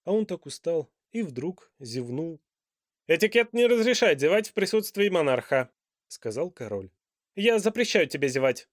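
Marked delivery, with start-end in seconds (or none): 3.1-5.7 loud, high royal reprimand; a pompous king lecturing on etiquette; stern king. A narrator's reading. King's voice. 7.3-8.7 loud, high royal reprimand; a pompous king lecturing on etiquette; stern king. A narrator's reading. King's voice.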